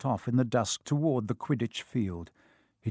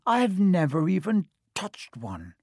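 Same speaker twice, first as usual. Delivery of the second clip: envious moan; 5 semitones higher than usual. Acted. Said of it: "Ron moaned enviously".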